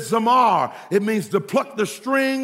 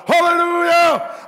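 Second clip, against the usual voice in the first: high, loud congregation holler of Hallelujah; 9 semitones higher, 5 dB louder than usual. Retold or imitated. Preacher imitating congregation's hollered Hallelujah, high loud. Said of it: "And they hollered".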